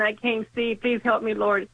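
ordinary talk

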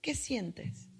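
dropping to a hush as it repeats; softly repeated question. Acted. Therapist coaxing the listener inward, fading to a hush.

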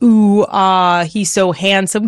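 lightly gushing infatuated admirer; a touch of mock swoon. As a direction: playfully imitate starry-eyed romance. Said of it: "this romanticized".

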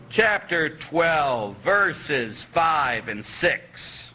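very slow, drawn out; slow announcement. Real, not acted. Preacher slowly announcing the verse to the congregation.

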